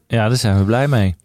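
deadpan, could pass for sarcasm; unenthusiastic. Real, not acted. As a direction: say you're pleased without sounding it. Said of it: "mag iets enthousiaster".

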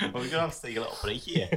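real giggles, words coming quickly; laughing. Real, not acted. Podcaster breaking up over own bin story and calling a break, laughing. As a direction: talk through a fit of laughter.

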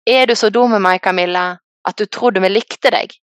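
mock yell. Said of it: "ropte han".

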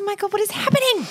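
high, fast disbelief; can't believe it; disbelieving. Real, not acted. Disbelief at story.

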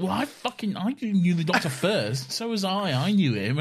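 high, petulant mock Rose; salty Rose. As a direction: whine it like a jealous ex-companion. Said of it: "she was like".

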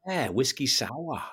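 slow "whiskey sow-ah"; mimicked Boston accent. Answering her drink offer, slow mimicked Boston accent. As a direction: draw out the Boston "sour". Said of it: "And I'd be like".

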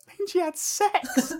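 a dad explaining to his son, in a high, slow put-on voice; deadpan dad. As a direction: spell it out slowly as the knowing dad. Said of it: "And his dad's like".

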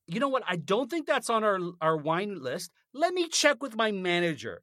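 mock courteous server offering to check; polite waiter. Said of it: "should have said".

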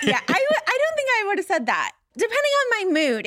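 high, fast and laughing. Real, not acted. Host laughs while answering her co-host.

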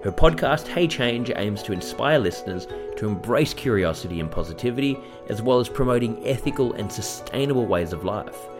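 scripted welcome read to listeners; podcast introduction read; podcast host intro. Acted. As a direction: introduce the guest in a measured presenter's read.

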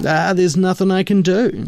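imitating Hagen's rueful refusal; resigned sigh. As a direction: let him down gently with a sigh. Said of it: "he's like".

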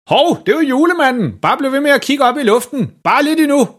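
meget høj, ivrig stemme; falsk begejstret. A narrator's reading. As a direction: hold folks blik oppe. Far lokker folk til at kigge op. (overspillet jubel)

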